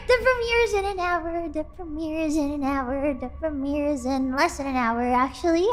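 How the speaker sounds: excitement winding down. Real, not acted. Frantic repeats wind down.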